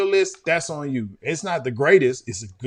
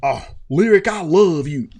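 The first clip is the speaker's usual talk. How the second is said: hammed-up movie Houston accent, a bit louder; mock Houston accent; 5 dB louder than usual. Host mocking Jason's Lyric with an imitated Houston accent. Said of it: "people in Houston don't talk like that".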